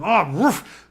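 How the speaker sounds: short imitated woof; mock dog bark; dog reacting. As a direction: act out a dog perking up. Acting out the dogs alerting.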